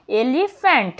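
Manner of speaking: "এলিফ্যান্ট" parted as "এলি" and "ফ্যান্ট"; split into syllables. Shown as a demonstration. Teacher naming a two-syllable word, "এলিফ্যান্ট" said in two parts. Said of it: "দুটি syllable যুক্ত word হচ্ছে".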